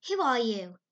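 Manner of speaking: put-on stern old woman demanding; curt demand. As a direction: bark out the question. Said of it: "demanded Miss Josephine Barry without ceremony".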